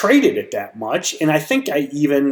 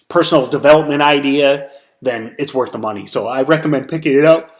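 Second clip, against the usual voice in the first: words stretched by a yawn; faster than usual. Real, not acted. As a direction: talk through a tired yawn. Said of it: "Sorry about the yawns".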